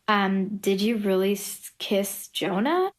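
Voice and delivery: hesitant question, drawn out at the end; imitated nosy question. Everyone asks her about the kiss, imitated nosy question. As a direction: stretch the name slowly into a rising question.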